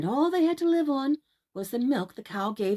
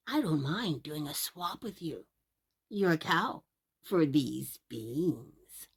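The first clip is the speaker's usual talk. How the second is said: put-on tempting old man; 4 semitones lower, slower than usual. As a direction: coax him into the swap. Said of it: "says he".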